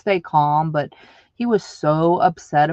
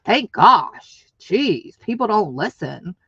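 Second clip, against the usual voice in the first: snippy jerk; 3 dB louder, slower than usual. Retold or imitated. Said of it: "You know, I was a jerk".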